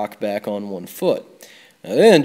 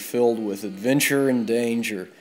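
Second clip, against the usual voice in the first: dramatic manual read. Shown as a demonstration. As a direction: sell it like an epic game ad. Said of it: "Let me read you what it's about".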